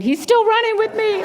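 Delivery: high, laughing delight; amused. Real, not acted. Speaker telling congregation about the persistent boy, laughing. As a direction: tell it through a laugh.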